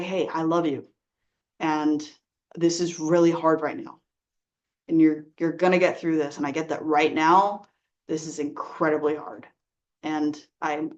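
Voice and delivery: soft and low, letting them know you're there; soft, comforting. Shown as a demonstration. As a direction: say it softly, like sitting with a grieving friend. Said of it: "there's a way that you can say that with your energy".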